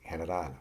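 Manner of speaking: general with its G said as an English H; Spanish soft G. Shown as a demonstration. Teacher showing learners G before E, H sound in general. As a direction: say the G in general as a breathed H. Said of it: "is pronounced like an H".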